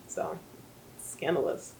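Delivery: scandalized whisper; whispered aside. Real, not acted. Sharing the book's twist with viewers, whispering. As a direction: breathe it like a secret. Gossiping about Lucien's parentage.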